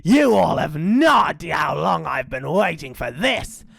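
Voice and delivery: swooping, savoured villain's line; gloating dingo. Acted. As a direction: relish it as a hungry villain. Dingo gloats over joeys.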